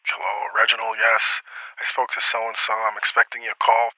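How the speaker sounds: lightly voiced reserved dean; a quiet, understated official answering a call; softly imitating a dean taking a call; dean on the phone. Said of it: "I call him, he's like".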